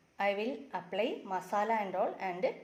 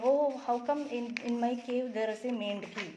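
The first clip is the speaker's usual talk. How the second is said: mock surprised fox. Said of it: "So he is asking".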